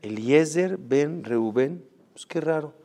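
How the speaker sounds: "Eliezer ben Reubén" repetido bajito y lento, con sorpresa; extrañado, en voz baja. Retold or imitated. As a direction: murmura "Eliezer ben Reubén" como quien reconoce su propio nombre. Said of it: "como que se le llama la atención". (repite "Eliezer ben Reubén", extrañado y lento)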